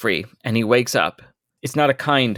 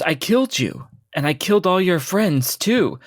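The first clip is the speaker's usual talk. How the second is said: raving Lorak; 5 semitones higher than usual. Acted.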